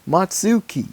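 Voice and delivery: put-on high squeaky girl voice; high character voice. Child voicing Luna Girl.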